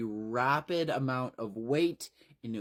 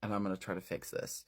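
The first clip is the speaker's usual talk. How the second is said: quiet, upset; 4 semitones lower, 7 dB quieter, faster than usual. Acted. Tim after crying, quietly.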